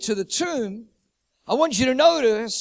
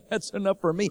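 laughing mock quote. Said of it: "then say".

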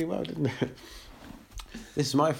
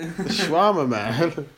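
mock Israeli accent; slower than usual. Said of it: "What would you say for Israeli?".

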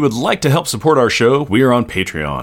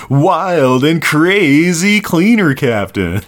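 laughing; 6 semitones higher, 4 dB louder, much slower than usual. Acted. Laughing, hammy announcer line.

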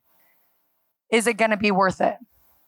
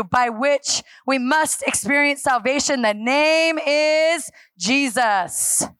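bold, courageous. Acted. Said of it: "they witnessed the bold, courageous".

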